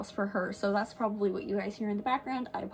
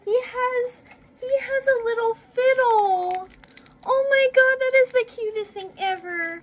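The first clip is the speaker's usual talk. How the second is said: excited; 14 semitones higher, 6 dB louder than usual. Real, not acted. Unboxing matching toys.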